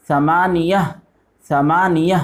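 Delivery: ثمانیہ said twice, each syllable clear; Arabic drill repeat. Shown as a demonstration. Teacher drills Arabic eight for pupils, syllable-clear model repeats. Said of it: "آٹھ کو بولتے ہیں ثمانیہ".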